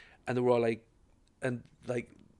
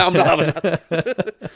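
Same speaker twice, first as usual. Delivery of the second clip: mock indignant; 5 semitones higher, 8 dB louder, much slower than usual. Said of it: "I'm like".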